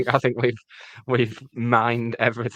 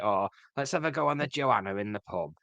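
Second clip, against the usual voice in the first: failed Cockney, coming out northern; northern accent; 4 semitones lower, 5 dB quieter than usual. Retold or imitated. Mimicking forties Londoners down the pub, accidental northern accent. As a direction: attempt Cockney but slip into northern English. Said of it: "I'm doing it in a northern accent".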